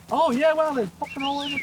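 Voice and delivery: excited. Real, not acted. Emus suddenly appearing.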